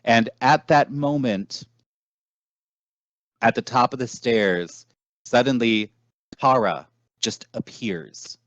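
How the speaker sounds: deliberate storyteller with dramatic pauses; game master narration. Acted. Game master showing players a city of devils, measured narration. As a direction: set the scene, letting key phrases hang.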